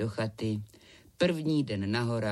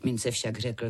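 usual speaking voice

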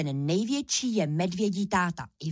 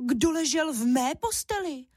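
higher, cross mother bear; angry mama bear; 7 semitones higher than usual. A narrator's reading. Mama bear finding her bed slept in, higher cross scolding. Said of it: "zlobila se Máša hlasem medvědí maminky".

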